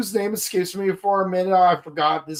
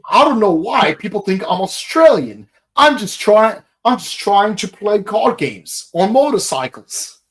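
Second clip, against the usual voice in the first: loud, higher Cockney impression; Jack Atlas; 4 semitones higher, 5 dB louder than usual. Podcaster imitating the dubbed anime duelist, Cockney accent. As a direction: play an indignant Cockney card player. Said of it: "he's Cockney".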